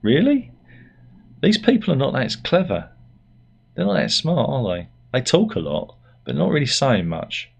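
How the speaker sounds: incredulous high Really, then scornful; old cynic scoffing at two videos; cynical scoff. Retold or imitated. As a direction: scoff like a grumpy old man on the sofa. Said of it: "and went".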